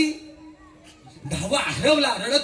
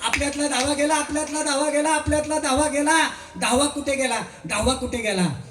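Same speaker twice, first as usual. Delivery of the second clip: higher, hammed-up group lament; keen over the lost tenth one; all ten fools mock-weeping, in a much higher voice; mock wailing; 6 semitones higher than usual. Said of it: "रडायला लागली".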